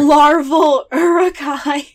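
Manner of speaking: loud, high, slow disbelief; shocked question. Real, not acted. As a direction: gasp it out in horror. Shocked at the idea.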